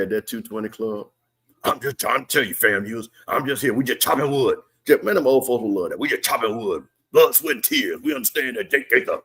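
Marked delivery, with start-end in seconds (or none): 1.6-4.6 lightly voiced coach Chennis Berry, folksy; a hint of a down-home coach talking to the crowd; Chennis Berry impression. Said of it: "my Chennis Berry impersonation". 6.0-9.2 lightly voiced coach Chennis Berry, proud; a touch of old-school coach pride; Chennis Berry impression. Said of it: "my Chennis Berry impersonation".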